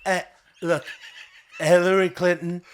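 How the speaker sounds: put-on drunk Trump, loose and slurred; tipsy rambling with a laugh. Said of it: "He's so drunk".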